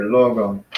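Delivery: LOgon, first syllable stressed; front stress. Shown as a demonstration. Teacher showing "logon" has its accent in front, first syllable stressed. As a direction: lean on the LO of "logon", letting the end drop. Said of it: "the accent is up here".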